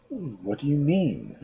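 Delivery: slow, heavy shark voice. Acted. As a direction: drag the words like a dull shark. Shark speaks in story.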